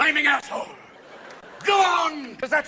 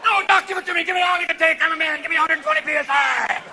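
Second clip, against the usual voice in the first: loud, higher macho bellow; macho shouting; 5 semitones higher, 4 dB louder than usual. Acted. Patient yelling at doctor for more air, macho shout. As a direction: bellow it like a tough guy.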